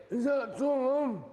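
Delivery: high, slow mock call of the dad; lightly mocking dad calling from across the room.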